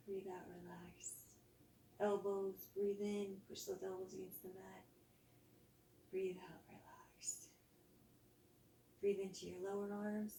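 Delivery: soft guided body scan, exhales whispered; calm yoga teacher voice easing the class into rest; guided relaxation. Acted. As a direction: lead them gently through tensing and letting go.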